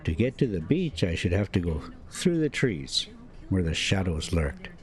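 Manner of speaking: steady, measured audiobook reading; story narration. A narrator's reading. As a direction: read it like an unhurried novel narrator. Reading novel aloud between driving.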